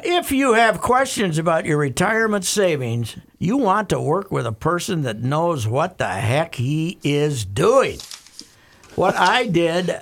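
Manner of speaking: emphatic sponsor read with swooping stresses; live radio host pitching a sponsor. Real, not acted. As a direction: sell it word by word, punching key phrases. Reads a sponsor ad.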